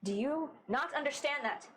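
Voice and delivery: runaway laughing off a threat; scornful Astra. Acted. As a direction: scoff at the idea of being forced.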